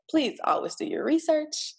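breathy whispered aside. Real, not acted. Whispering a warning to the listener. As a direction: lean in and whisper it.

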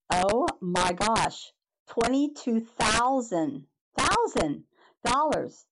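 slow, stunned, rising on thousand; shocked disbelief. Retold or imitated. Reading the insurance paper in the mail, slow stunned disbelief. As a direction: drag out the sum as if it can't be real. Reading the 22,000 dollar statement.

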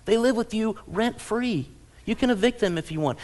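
ordinary delivery

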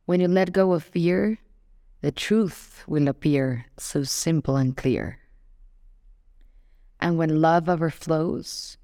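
measured poem-like reading with pauses between phrases; lyric reading. Acted. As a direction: recite the lyrics line by line, letting each phrase settle. Reads song lyrics aloud.

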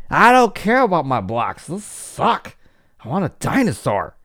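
put-on high, loud whiny child; whining kid. Child refusing blocks and demanding a dinosaur, high whine. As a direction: throw a kid's tantrum over the blocks.

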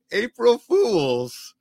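high, loud and slow, cracking up; teacher springing the joke on the apologizing student; laughing reveal. Retold or imitated. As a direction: drag out the punchline gleefully. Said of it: "he started laughing".

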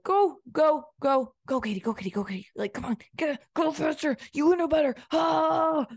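loud, high, hammered-out coach cheers; pushy coach yelling. Pretend. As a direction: yell like a coach driving an athlete on. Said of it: "that's my coaching voice".

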